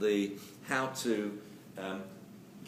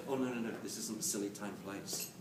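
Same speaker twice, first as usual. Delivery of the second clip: put-on gentle no to child; 4 semitones lower, 6 dB quieter than usual. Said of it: "then you can say".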